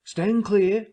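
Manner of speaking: husky sailor voice. Acted. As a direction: call it out like a seaman. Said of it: "in the former voice".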